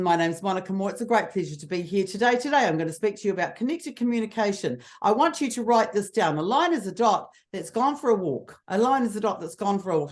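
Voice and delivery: flat, same note, same pace all through; a dull, lifeless speaker's monotone; monotonous delivery. Shown as a demonstration. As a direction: drone it out without any variety in tune. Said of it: "what is wrong with that? ... Monotonous".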